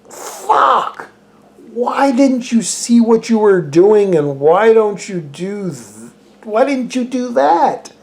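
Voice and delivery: high, exasperated outburst at the screen; angry viewer yelling at the movie characters; mock frustrated yell. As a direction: vent like a viewer betrayed by the film.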